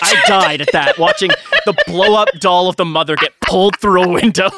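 laughing through the words. Real, not acted. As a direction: crack up while telling it. Laughing while recounting doll scene.

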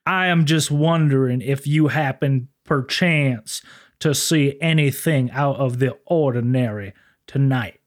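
slow, smooth, overly polite officer. Retold or imitated. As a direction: play a humble, courtly lawman. Sisko questioning the witness.

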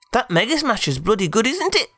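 very high, squeaky nymph; chirpy high admiring nymph. Acted. Said the tree nymph.

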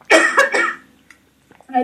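slow, recovering from coughing; clearing throat after choking. Real, not acted.

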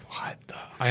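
imitated stunned whisper; whispered disbelief. Agent retelling his shocked thought, whispered. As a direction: whisper it under your breath, as if to yourself. Retold stunned inner reaction.

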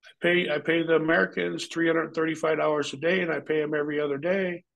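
lightly voiced boss; imitating the boss. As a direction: talk business as the boss. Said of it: "He says".

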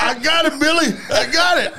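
hammed-up high cocky boast; mock overconfident hunter. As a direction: play the fool who thinks he's winning. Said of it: "You like".

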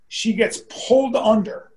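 ordinary talk

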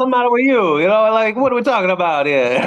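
high-pitched mock Jersey Italian accent; bad New York accent. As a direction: do a hammy Sopranos-style New York accent. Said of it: "like, the worst accent".

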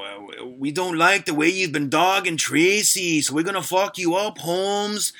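high, slow fake Latino gangster accent; bad Latino gangster accent. Prank caller warning Jay off Tracy in a fake Latino gangster accent. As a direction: threaten him in a terrible Latino gangster accent. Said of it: "terrible Latino gangster accent".

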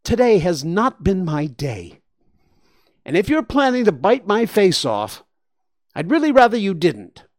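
put-on high pleading child voice; a kid pleading not to get his face bitten; begging boy. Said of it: "and begged".

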